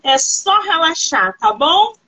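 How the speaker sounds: slow, soothing reassurance; calm someone down, unhurried; reassuring. Real, not acted. Host to her nervous guest before questions, reassuring.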